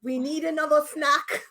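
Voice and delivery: badly faked Irish, sliding toward German; bad Irish accent. Singing the rewritten theme on request, bad Irish accent. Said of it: "it went a little German".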